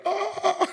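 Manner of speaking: very high, loud "oh" imitating laughers; mock laughing whoop. Brazilian friends laughing at the tricked American, high mock hoot. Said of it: "they're laughing".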